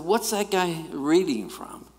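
a hint of a brash young wiseguy; brash street-guy question. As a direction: blurt it out like a cocky young guy. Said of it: "That's the way I talked back in those days".

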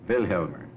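put-on repeating Wilhelmer with the accent on Wil; stress on first syllable. Interviewer repeats the name after the explorer, Wilhelmer stressed on its first syllable. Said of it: "correct way to pronounce your name".

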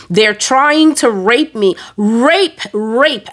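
urgent retold cry, not at full volume; retold scream. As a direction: cry out the alarm, stretching the words. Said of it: "I was screaming, screaming, screaming".

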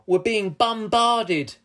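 high, loud, drawn-out alarm; yelling. A narrator's reading. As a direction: stretch out the warning cry. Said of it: "yelled Captain Lou Roll".

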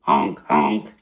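deep, loud goose honk; mock goose honking. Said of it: "what's he say".

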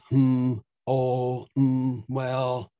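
drawn-out hmm, oh, mm, well as listener feedback; back channeling sounds. Shown as a demonstration. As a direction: murmur the little sounds of someone following along. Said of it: "you say things like".

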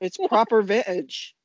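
put-on hammy English accent on proper vintage; bad English accent. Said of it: "That was the worst English accent".

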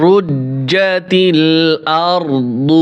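slow, drawn-out tajweed chant; Quran recitation. Shown as a demonstration. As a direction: recite each word with long held vowels. Recites the verse. (ধীরে টেনে টেনে কোরআন তিলাওয়াত)

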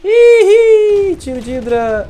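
high startled shriek; shrieking surprise. Real, not acted. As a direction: shriek it in shock. Hit by hydra shot.

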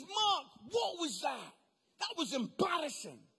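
a hint of a sneering minister; mock minister telling off. Minister tells Mark his show embarrassed him, lightly sneering.

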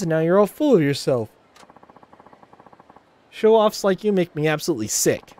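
high, scornful put-downs; catty Ulala sneering at Haruka; snide rival idol. Acted. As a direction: belittle the upstart.

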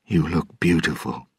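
softly spoken compliment. Acted. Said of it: "he added softly".

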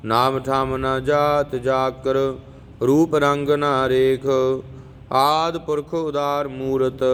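slow, measured chanting of verses; scripture recitation. Acted. Teacher reciting Jaap Sahib for students, measured chant. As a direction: recite each verse steadily and devoutly.

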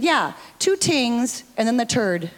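Tom's Irish punchline with t for th; Irish tings and turd. Retold or imitated. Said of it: "Tom stood up and said".

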